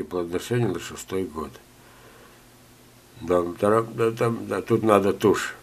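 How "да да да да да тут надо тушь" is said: ordinary talk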